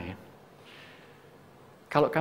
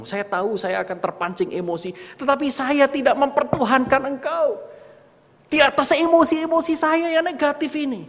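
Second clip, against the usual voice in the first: fervent prayer; 12 semitones higher, 4 dB louder than usual. Retold or imitated. Emotional prayer rising.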